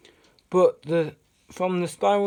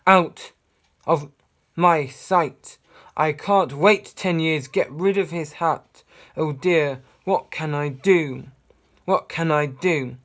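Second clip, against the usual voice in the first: angry shout; 8 dB louder than usual. Acted. King raging at magicians.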